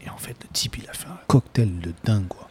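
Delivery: soft, voiceless aside to the listeners; hushed aside. Real, not acted. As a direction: drop to a confiding hush. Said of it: "aside to listeners".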